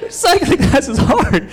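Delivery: high, slow comic complaint; mock whining. Struggling rider four minutes into class, comically whining. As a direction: drag it out high, half laughing.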